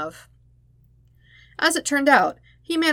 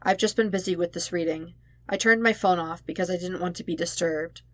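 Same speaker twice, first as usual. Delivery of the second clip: measured voice; 4 dB quieter than usual. Acted. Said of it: "in the most measured voice he could muster".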